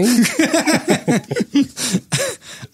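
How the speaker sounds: high squealing laugh; high burst of laughter. Real, not acted. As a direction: shriek with laughter at the joke. Joke about time travel.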